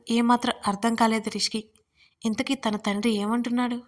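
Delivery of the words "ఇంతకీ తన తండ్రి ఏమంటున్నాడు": ordinary delivery, nothing marked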